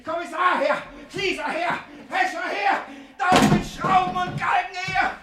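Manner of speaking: very high, loud hysterical ranting; raging shout. Acted. Miser screaming threats at his whole household. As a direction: call down vengeance on everyone.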